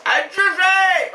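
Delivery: slow, loud adjugé called out; mock auctioneer. Host declaring the word sold like an auctioneer. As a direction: proclaim adjugé like a gavel strike.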